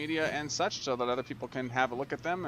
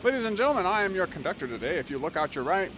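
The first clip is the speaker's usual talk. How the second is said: mock train conductor; 5 semitones higher than usual. Playing conductor to an empty freight train, mock announcer. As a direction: play the cheesy tour conductor. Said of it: "the whole conductor thing".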